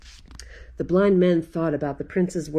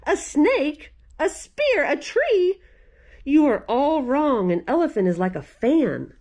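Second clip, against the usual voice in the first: mock shout; 7 semitones higher than usual. A narrator's reading. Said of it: "The fifth man started to shout".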